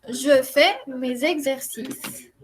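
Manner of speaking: slowly and clearly, each syllable; "Je fais mes exercices" spelled out slowly; slow model reading. Shown as a demonstration. Teacher models the sentence slowly for the class. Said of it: "Muy bien".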